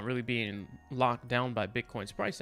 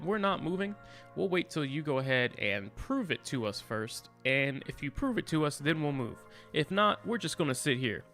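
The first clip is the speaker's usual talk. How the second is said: voicing the altcoins. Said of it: "they said".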